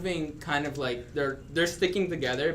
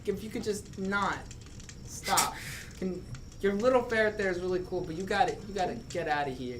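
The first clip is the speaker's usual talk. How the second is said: small troll voice; 4 semitones higher, 4 dB quieter than usual. Acted. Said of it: "and he goes".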